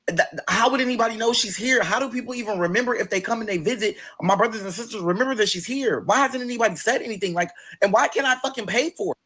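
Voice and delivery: venting hurt that nobody noticed; exasperated outrage. Real, not acted. Upset mother has no nameplate.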